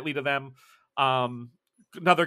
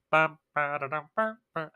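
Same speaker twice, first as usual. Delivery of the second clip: hummed funeral tune; 3 dB quieter than usual. Acted. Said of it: "you hear funerary music".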